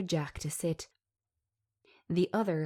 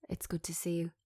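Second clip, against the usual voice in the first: soft whisper; 6 dB quieter, faster than usual. Acted.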